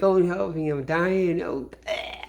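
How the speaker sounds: high, hammed-up cry for help; mock dying plea. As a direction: beg like a trapped rabbit. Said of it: "He's like".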